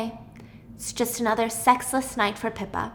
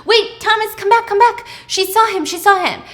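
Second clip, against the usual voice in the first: higher and louder urgent call; calling back; 9 semitones higher, 6 dB louder than usual. Retold or imitated. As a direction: stop him mid-stride.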